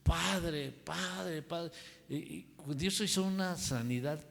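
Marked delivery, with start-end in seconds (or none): 0.0-1.7 imitando un grito a media voz; repítelo más vivo, como un grito contenido; grito imitado. Retold or imitated. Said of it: "y después estaba gritando". (imitación leve de gritos)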